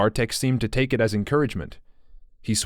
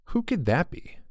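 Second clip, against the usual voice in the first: worried; 6 semitones higher, 4 dB quieter than usual. Acted. Bartek worried at a knock.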